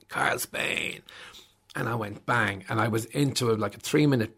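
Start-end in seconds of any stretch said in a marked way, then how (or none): 0.1-1.0 a lightly voiced announcer, hushed; radio host intro. Radio host introduces Carl, a light hushed announcer. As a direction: quietly announce the guest. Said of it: "the guy go".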